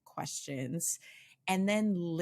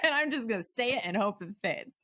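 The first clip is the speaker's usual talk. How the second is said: higher, gamely eager self-quote; mildly excited; 5 semitones higher, faster than usual. Retold or imitated. Host acts out herself trying the local language, mildly excited. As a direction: play up a learner's eagerness a little. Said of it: "I get so excited that I'm like".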